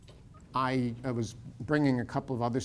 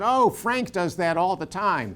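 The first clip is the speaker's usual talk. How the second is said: slow, laughing and louder; amused wife brushing it off with a laugh; retold laughing reassurance; 6 semitones higher, 7 dB louder, slower than usual. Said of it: "she just laughed and said".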